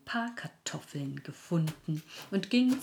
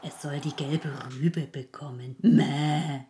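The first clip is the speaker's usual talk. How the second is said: lamb voice. Acted. Lamb character speaks with bleats.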